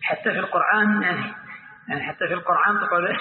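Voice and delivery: "القرآن" said with an ayn inside; hamza as ayn. Retold or imitated. Neighbour questioning the reciter, "القرآن" with ayn for hamza. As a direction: ask it with "القرآن" pronounced as qur'an with ayn. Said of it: "يقلبون الهمزة عينا".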